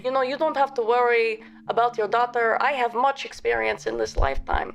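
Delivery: bad French accent, hammed up; terrible French accent. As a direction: put on a clumsy French accent. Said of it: "That is a terrible French accent".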